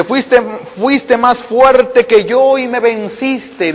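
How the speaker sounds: very slow, stretched out; slow solemn quote. Acted. Preacher quoting Jeremiah to the faithful, very slow. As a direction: draw out every word with reverence. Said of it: "dice Jeremías".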